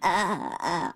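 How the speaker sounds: creaky vocal fry groan. Acted. Host imitating pop-star vocal fry, creaky groan. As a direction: let the vowel crackle in the throat. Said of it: "a pop star's vocal fry".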